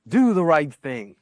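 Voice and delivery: a preacher's firm nudge; exhortation. Shown as a demonstration. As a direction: urge them toward virtue. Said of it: "The third class are exhortations to virtue".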